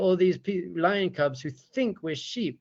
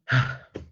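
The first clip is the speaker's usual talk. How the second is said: breathy exhale. Acted. Neshama has just been woken up.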